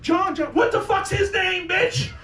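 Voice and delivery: high, frantic grasping for the name; panicked mom. Retold or imitated. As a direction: blurt it like a terrified mother.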